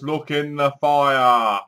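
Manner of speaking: very slow, drawn-out spirit voice; slow ghostly message. Retold or imitated. Reviewer voicing the Ouija spirit, very slow. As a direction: intone it like a ghost on the board. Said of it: "So he goes".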